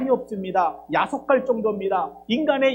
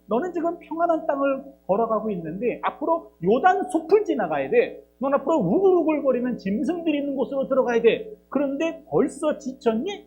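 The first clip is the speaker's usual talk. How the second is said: a hint of a stern God, rising on 요단; lightly voiced God asking if he is tired already; God rebuking prophet; 4 semitones higher than usual. God asks Jeremiah if he is already tired, mock stern. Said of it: "라고 합니다".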